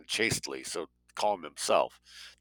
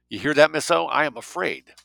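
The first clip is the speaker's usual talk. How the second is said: raised, higher-pitched outburst; emphatic fearful confession; 7 semitones higher, 6 dB louder than usual. A narrator's reading. Dale admitting fear to Miss O, emphatically. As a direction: throw the admission out loudly.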